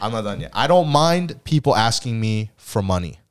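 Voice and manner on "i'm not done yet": laughing through it softly. Real, not acted. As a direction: repeat it while laughing.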